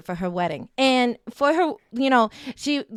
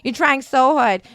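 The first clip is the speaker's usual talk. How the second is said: patronizing mother; 4 dB louder than usual. Retold or imitated. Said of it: "head pats, walks away".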